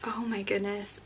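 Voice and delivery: soft whispered wonder; awed whisper. Real, not acted. Reading the book's back, overwhelmed, whispered.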